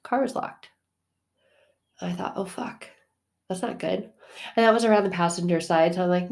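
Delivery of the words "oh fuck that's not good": hushed, breathy whisper, much softer; whispered curse. Retold or imitated. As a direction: whisper it to yourself in dismay. Retold panicked inner thought.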